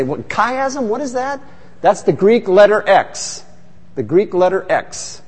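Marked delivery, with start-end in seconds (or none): 0.0-1.4 high puzzled mock confusion, asked on behalf of the listeners; baffled question. Pastor voicing the congregation's confusion, mock baffled. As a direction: play the congregation's confused reaction, pitched up. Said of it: "you and I look at that and we say".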